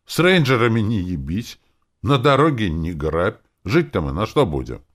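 loud, high, indignant protest; outraged listing of grievances; yelling. A narrator's reading. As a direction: protest at the top of it. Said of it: "заорала Роза".

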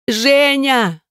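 high scream of his name breaking into crying; scream turning to sobs. A narrator's reading. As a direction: cry his name out over his body. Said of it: "Крик перешёл в рыдание".

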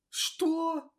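startled high-pitched question; frightened drawn-out. A narrator's reading. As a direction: gasp it out in fright. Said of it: "испуганно протянул Кирай".

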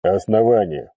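indifferent. Acted. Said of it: "равнодушно осведомился инквизитор".

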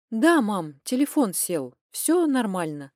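joyless. Acted. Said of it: "безрадостно отозвалась я".

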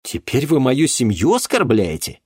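high, loud outraged exclamation; exclaimed. Acted. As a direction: cry out in outrage. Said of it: "воскликнул он".

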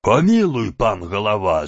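громко взмолиться; упасть в ноги с мольбой; мольба с криком. Acted. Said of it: "закричали некоторые". (десятские умоляют голову)

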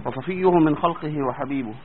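soft, measured sermon-style praise; formal opening prayer. Acted. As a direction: recite the opening blessing calmly. Formal opening praise before lesson.

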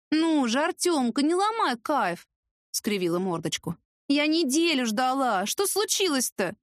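high, slow, whiny coaxing; pouty pleading girl. Acted. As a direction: draw out the words like a spoilt girlfriend. Девица капризно уговаривает парня. (капризно тянет слова)

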